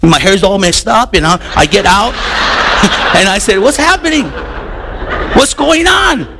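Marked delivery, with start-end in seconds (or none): 3.6-6.3 overly friendly greeting. Retold or imitated. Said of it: "I'm a little too friendly".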